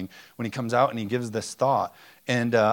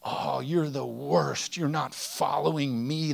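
mock angry dictator God; 4 semitones higher, slower than usual. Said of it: "the anger was like".

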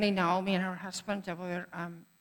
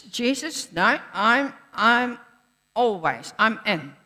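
louder, insistent vow of loyalty; eager pledge; 3 semitones higher, 6 dB louder, slower than usual. Acted. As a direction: swear you're all in, fervently. Peter pledging loyalty to Jesus.

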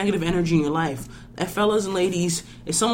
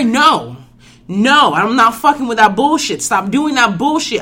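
pissed off; 2 semitones higher, 5 dB louder than usual. Real, not acted. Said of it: "I sound fucking pissed off".

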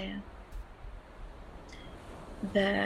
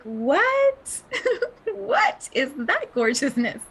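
much higher, gasping with delight; amazed wonder; 8 semitones higher, 3 dB louder, slower than usual. Retold or imitated. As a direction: marvel at something dazzling. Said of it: "and you're like".

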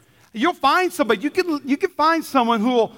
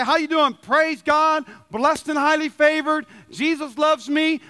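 higher-pitched Sunday-morning greeting voice; mock church pleasantries; 5 semitones higher, slower than usual. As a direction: imitate pious small talk, pitched up. Mimics Sunday church small talk.

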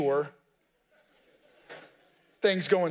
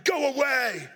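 demon voice; 3 semitones higher, slower than usual. Retold or imitated. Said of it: "grovelly, dark voice is yelling".

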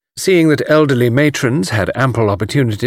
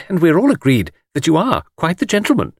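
higher, lightly voiced flattering lady; gushing admirer; 7 semitones higher than usual. A narrator's reading. Miss Taylor praising Mr Cade, gushing. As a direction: flatter him earnestly.

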